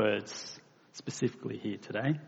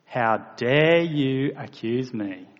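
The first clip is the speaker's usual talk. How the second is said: slow, louder, offended snap; indignant tone; 5 dB louder, slower than usual. Retold or imitated. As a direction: act out a wounded, angry retort. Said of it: "Oh, and of course, the tone".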